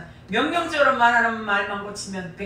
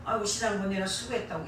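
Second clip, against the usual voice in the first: gentle thanks demo; 2 semitones lower, 4 dB quieter than usual. Shown as a demonstration. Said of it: "얼마나 듣기 좋습니까".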